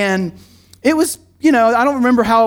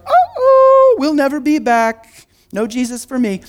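mock horror; 4 semitones higher, 3 dB louder, slower than usual. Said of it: "You're like".

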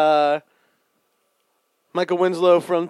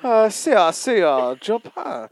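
mock Japanese accent; 3 semitones higher, slower than usual. Mocking the failed Japanese accent.

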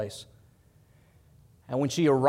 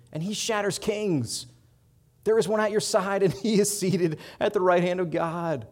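climbing higher and louder, line by line; building assurance; 6 semitones higher, 4 dB louder than usual. Retold or imitated. God speaking to his troubled people, building assurance. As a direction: build each promise toward a triumphant peak. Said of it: "God is looking at our life saying".

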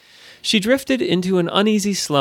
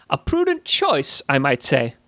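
wry goblin. Acted. Goblin approves.

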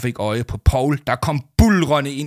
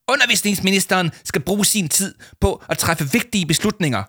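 raised, indignant shout; 9 semitones higher than usual. A narrator's reading. Minister's adviser yelling at the host, indignant shout. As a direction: official losing his temper, higher. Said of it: "råbte Leo Manchot".

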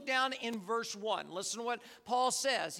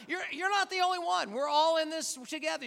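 rousing preacher; 5 semitones higher, 5 dB louder than usual. Real, not acted. Preacher rallying the congregation.

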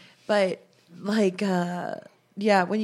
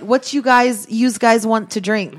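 louder mock East Coast server; East Coast "use guys"; 6 dB louder, slower than usual. Imitating East Coasters taking drink orders, mock accent. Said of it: "They're like".

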